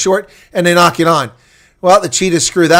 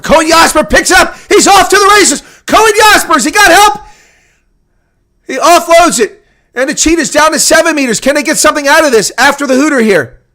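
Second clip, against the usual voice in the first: much higher, louder shouting call; excited shout; 13 semitones higher, 8 dB louder than usual. Real, not acted. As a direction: let it rip as he breaks clear. Break after the hooter.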